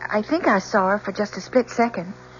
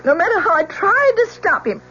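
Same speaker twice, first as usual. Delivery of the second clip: distraught outburst. Acted. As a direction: blurt it all out, unable to stop. Witness breaks down testifying.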